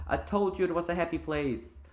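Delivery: high, chirpy creature voice; sing-song little sprite remark; cheerful tiny creature. Acted. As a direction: pipe it up in a held high pitch. Chirpy creature voiced in game reading.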